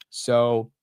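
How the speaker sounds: amused laughing disbelief. Real, not acted. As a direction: chuckle through the words in disbelief. Laughing at margin offer.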